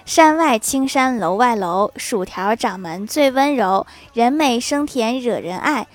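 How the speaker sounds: slow, measured mock verse reading; poem recitation. Reading out a listener's flattering homemade poem, slow recitation. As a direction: recite it slowly, line by line. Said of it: "我做了一首诗".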